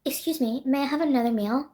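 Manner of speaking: lightly voiced needy passenger; imitating annoying passenger. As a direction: mimic a seatmate's predictable polite request. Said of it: "predicting his voice going".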